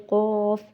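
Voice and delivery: قاف said thick, from the back of the mouth; heavy qaf. Shown as a demonstration. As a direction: make قاف full and heavy. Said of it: "یہ بھی موٹا حروف ہے". (قاف موٹا پڑھیں)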